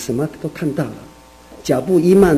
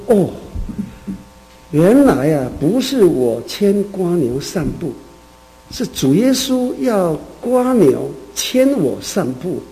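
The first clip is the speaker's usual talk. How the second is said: slow, rising awe at the discovery; a man realizing the snail leads him, slow and awed; sudden realization; 3 semitones higher, slower than usual. Retold or imitated. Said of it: "他恍然顿悟了".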